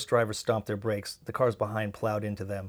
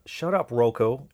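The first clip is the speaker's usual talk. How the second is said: loud, drawn-out telling-off; exasperated, stretched-out objection; annoyed protest; 3 semitones higher, 8 dB louder, slower than usual. A narrator's reading. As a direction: shut down a teasing friend, slowly and loudly. Cuts off the taunting song.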